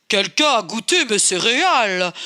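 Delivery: Papa Bear booming a bit; big gruff voice. Acted. Papa Bear complaining about his cereal, mildly booming. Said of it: "d'une très grosse voix".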